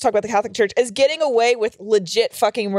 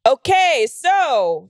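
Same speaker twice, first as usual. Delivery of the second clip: awkward silence-breaker; 3 semitones higher, 3 dB louder, much slower than usual. Retold or imitated. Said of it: "it's just silent until you're like".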